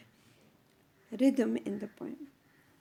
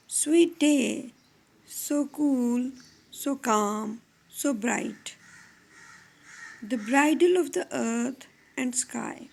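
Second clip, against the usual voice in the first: measured poetry reading with pauses between phrases; poem recitation. Shown as a demonstration. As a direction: recite it as verse, letting the iambic meter show. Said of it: "read a poem, Virtue by George Herbert".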